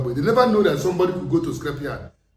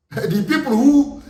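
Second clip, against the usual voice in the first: laughing; 9 semitones higher, 4 dB louder, slower than usual. Real, not acted. Laughs before accusing ANC.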